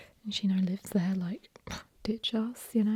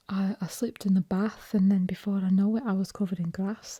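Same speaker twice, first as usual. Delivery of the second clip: attempted Sheffield accent, short A in "bath" and "grass". Shown as a demonstration. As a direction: have a rough go at Sheffield. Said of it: "a Sheffield accent, obviously".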